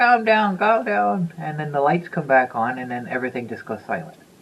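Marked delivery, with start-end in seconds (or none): 0.0-1.3 shrill, very high, raised yell. Retelling the teacher yelling at a noisy class: imitating a teacher yelling. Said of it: "the teacher starts yelling".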